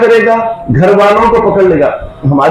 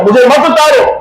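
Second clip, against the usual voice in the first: mock wail; 5 semitones higher than usual. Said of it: "چیخے مارے گا".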